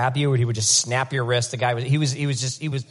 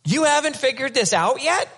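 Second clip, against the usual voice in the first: disappointed Jesus; 10 semitones higher than usual. Acted. Jesus to his disciples, exasperated disappointment. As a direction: scold them like a let-down teacher. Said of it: "seriously disappointed in his disciples".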